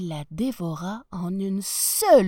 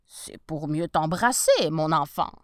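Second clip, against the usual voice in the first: wolf voice; 5 semitones lower, 4 dB louder than usual. Acted. Wolf disguised as grandmother.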